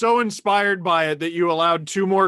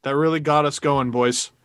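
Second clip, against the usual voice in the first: mock hockey player; 4 semitones lower than usual. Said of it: "such a hockey thing".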